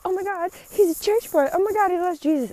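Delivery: high, excited squealing fan voice; gushing commenters. Retold or imitated. Commenters gushing over the church boy, high excited squeals. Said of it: "there's people like".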